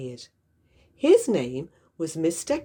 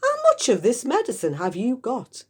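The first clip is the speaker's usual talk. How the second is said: eager shout; 6 semitones higher than usual. Acted. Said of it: "Mister Cranky shouted".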